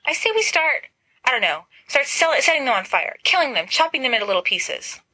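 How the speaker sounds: high, frantic and shrill-edged urging; a tad hysterical, pushing to attack; Lily half-panicked, urging the group to burn the pumpkins. Acted. Lily hysterical call to violence.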